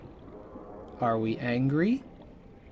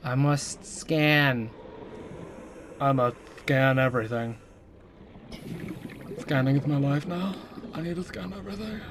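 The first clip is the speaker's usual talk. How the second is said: odd robotic voice; slower than usual. Pretend. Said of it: "I don't know why I'm doing this voice".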